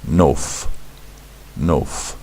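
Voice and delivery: "nof" said as one punched syllable with a crisp final f; demonstrated pronunciation. Shown as a demonstration. Teacher shows how this word is pronounced, demonstrated pronunciation. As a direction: say "Nof" distinctly, as a model word. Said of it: "This word is pronounced".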